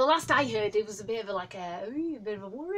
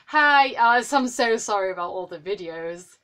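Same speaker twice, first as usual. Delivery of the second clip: gushing fangirl; 10 dB louder than usual. Pretend. Imagined apology to skater, loud.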